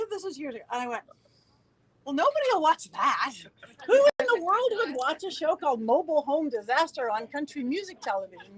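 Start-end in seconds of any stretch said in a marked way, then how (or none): 2.0-8.6 incredulous. Retold or imitated. Telling friends nobody would watch that show, incredulous. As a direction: scoff in outraged disbelief at the idea.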